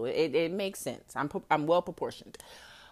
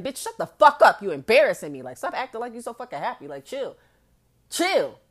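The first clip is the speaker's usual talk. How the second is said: exasperated telling-off, jumping up in pitch; sharp scolding with sudden louder bursts; 4 semitones higher, 4 dB louder than usual. Acted. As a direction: tell her off like she's embarrassing you. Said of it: "That's how you gotta talk to her".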